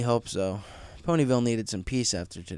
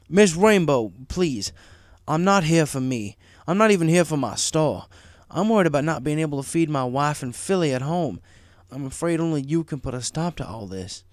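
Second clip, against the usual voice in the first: louder, urgent begging; pleading; 5 semitones higher, 5 dB louder than usual. Acted. Marty begging Rainbow for help, louder pleading. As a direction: plead for his family.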